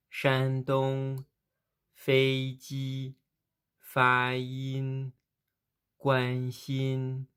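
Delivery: premier ton tenu haut et plat sur Shandong, Feiji, Fayin, Guanxin; premier ton modèle. Shown as a demonstration. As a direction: tenir chaque syllabe haute et plate, bien détachée. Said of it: "On commence". (prononciation modèle du premier ton, tenue haute et plate)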